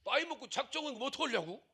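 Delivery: lightly voiced worried phone caller; imitating a fretting caller. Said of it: "어떤 분이 나한테 전화 와갖고".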